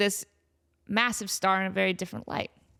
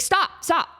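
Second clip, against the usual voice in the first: movie star pleading; 7 semitones higher, slower than usual. Retold or imitated. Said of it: "she has that moment".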